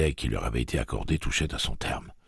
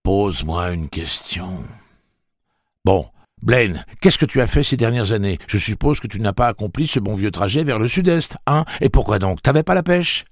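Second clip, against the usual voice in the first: verve étourdissante; 7 semitones higher, 7 dB louder than usual. A narrator's reading. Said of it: "parla avec une verve étourdissante".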